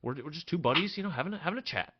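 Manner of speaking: a squeaky show of calm; forced brave front. Acted. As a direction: fake calm while held captive. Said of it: "trying to put on a brave front".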